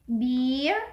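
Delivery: long drawn-out E in "beer". Shown as a demonstration. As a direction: stretch the vowel of "beer" before the R. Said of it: "for the long E is".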